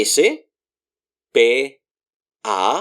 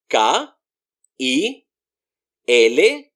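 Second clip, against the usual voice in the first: usual speaking voice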